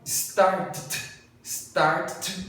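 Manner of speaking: "started" crammed into one syllable, start-t; impossible pronunciation. Shown as a demonstration. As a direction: double the final T of "started" with no vowel. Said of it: "não tem como falar". ("started" sem a sílaba extra, só T dobrado)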